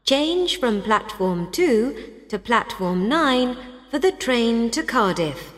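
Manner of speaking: train station announcement. Acted. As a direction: clear platform change notice. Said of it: "Listen to train station announcements".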